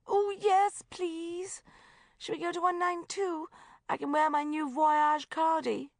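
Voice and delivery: high, eager brightening; suddenly cheerful. Acted. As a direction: perk right up.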